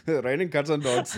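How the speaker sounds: laughing mock Bradford accent. Mocking girlfriend's saying in a laughing Bradford accent, lightly done. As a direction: tease her with a Bradford accent. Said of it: "An English accent from Bradford".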